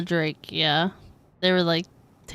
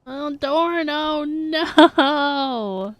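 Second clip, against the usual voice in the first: mock wail; 5 semitones higher, much slower than usual. Mock wail at character's grave.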